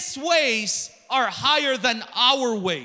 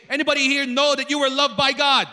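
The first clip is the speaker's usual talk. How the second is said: loud, quicker call to the congregation; rally an unconvinced crowd; rousing repeat; 2 semitones higher, 5 dB louder, faster than usual. Real, not acted. Preacher asks congregation after unconvincing answer, rousing and loud. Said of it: "One more time, not convincing".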